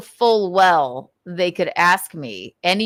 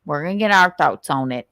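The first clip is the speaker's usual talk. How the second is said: mock Southern accent impression; lightly exaggerated Southern accent; mimicking the woman in the clip; 3 semitones lower than usual. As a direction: parrot it in her Southern twang. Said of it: "a pretty good impression".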